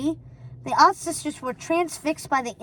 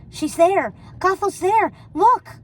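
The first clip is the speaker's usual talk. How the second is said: high, loud excited cry; 6 semitones higher, 6 dB louder, slower than usual. A narrator's reading. Ruby spotting Gothel in the mirror, excited. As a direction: point and shout in delight. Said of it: "said Ruby, pointing".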